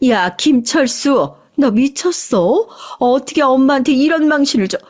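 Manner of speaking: mock outburst without real shouting; acted angry yelling. Mother-in-law humiliated on speakerphone, mildly acted fury at her son. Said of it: "소리를 버럭 질렀습니다".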